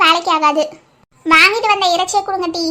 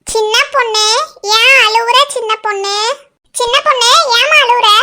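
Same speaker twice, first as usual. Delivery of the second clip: concerned; 3 semitones higher than usual. Acted. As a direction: ask with worry why she is crying. Worried friend asks why she cries. (கவலையுடன் விசாரிப்பு)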